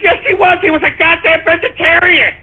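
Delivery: insistent rebuttal. Retold or imitated. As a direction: hammer the point home. Arguing with seller.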